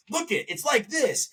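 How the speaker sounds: mocking, high-pitched preachy voice; heavy-handed lecturer. Host mocking the film's heavy-handed message, high and preachy. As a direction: imitate a movie hammering its point. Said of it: "it's the".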